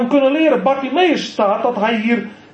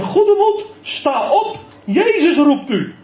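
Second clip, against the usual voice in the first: encouraging; 6 semitones higher, slower than usual. Acted. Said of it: "Dan krijgt hij een bemoediging".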